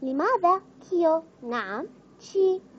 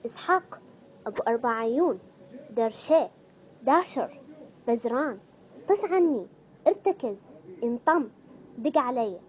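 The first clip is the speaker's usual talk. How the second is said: lightly Saudi-flavoured slang, each word punched; a hint of Saudi accent; Saudi dialect. Shown as a demonstration. Vlogger listing Saudi slang words, light Saudi accent. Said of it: "وهسه راح نيجي على اللهجة السعودية".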